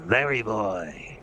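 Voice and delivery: slow, drawn-out cartoon hero voice; lightly voiced cartoon hero; Larry boy. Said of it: "Larry boy goes a little deeper".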